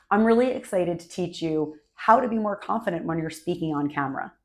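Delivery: smiling, bright and a little bigger; dinner party energy, slightly stronger voice; excited presenter voice. Shown as a demonstration. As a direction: welcome them like you're glad they came. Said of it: "That's sort of a voice where I'm actually excited you're here. I'm smiling".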